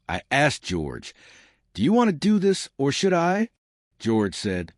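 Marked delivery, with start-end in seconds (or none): 1.7-3.5 lightly voiced question. A narrator's reading. Narrator voicing a question.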